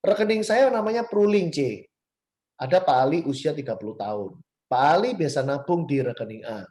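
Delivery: put-on sing-song demo of an old presentation style; rhythmic presentation intonation. Shown as a demonstration. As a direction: recite it like a memorised sales pitch in a set rhythm. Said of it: "kalau presentasi kan kayak gini".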